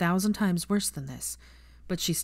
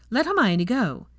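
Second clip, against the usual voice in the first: louder, slow, firm command; firm order; 6 semitones higher, 5 dB louder, slower than usual. Acted. Grandmother ordering Teddy to let go, slow and firm. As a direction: lay down the law slowly. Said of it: "Andromeda snapped".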